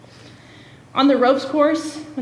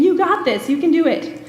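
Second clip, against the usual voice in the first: cheering on; 5 semitones higher than usual. Retold or imitated. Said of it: "his team's going".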